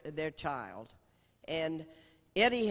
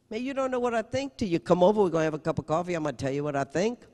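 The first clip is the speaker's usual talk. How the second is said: fast, louder friendly insistence; hearty insisting; 2 semitones higher, 6 dB louder, much faster than usual. Retold or imitated. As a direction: brush her doubt aside, quickly. Lloyd insisting on coffee.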